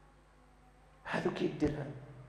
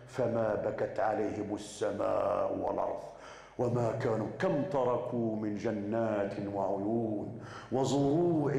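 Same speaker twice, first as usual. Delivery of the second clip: slow, lower chanted recitation; Quran recitation; 3 semitones lower, slower than usual. Acted. Preacher recites the Quran verse to the congregation, slow chant. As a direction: chant the verse slowly and low. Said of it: "ربي كيقول في القرآن".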